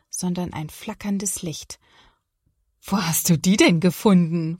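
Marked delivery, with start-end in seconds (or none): 2.8-4.6 surprised. Acted. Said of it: "fragt Papa erstaunt".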